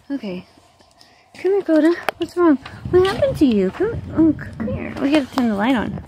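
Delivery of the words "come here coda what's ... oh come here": high, worried coaxing; coaxing pet talk. Real, not acted. Owner coaxes her dog to come, high pet-talk voice. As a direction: coax the dog gently in a raised pitch.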